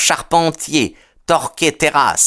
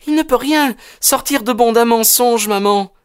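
put-on high, clear young woman's voice; clear, assured; 12 semitones higher than usual. A narrator's reading. Daughter urging her mother not to lie, clear and assured. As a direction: state it with assurance, pitched up. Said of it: "d'une voix claire et assurée".

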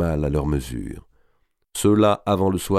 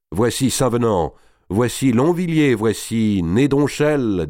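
raised-pitch herald's roll of names; announcing; 5 semitones higher, slower than usual. A narrator's reading. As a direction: present each knight, stretching the last name. Présentation des chevaliers au comte. (annonce solennelle des chevaliers)

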